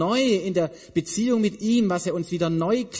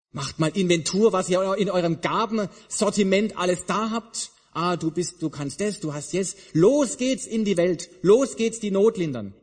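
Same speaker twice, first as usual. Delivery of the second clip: building to a louder eager send-off; mock rallying call; 4 semitones higher, 4 dB louder than usual. Preacher mocking an eager send-off to the world. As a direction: fire them up to rush out. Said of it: "sagt eben Jesus nicht".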